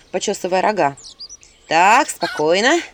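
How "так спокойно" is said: slow, loud steadying call; calming. Acted. Heroine exhaling to calm the squabbling imps. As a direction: settle them down slowly. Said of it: "выдохнула я".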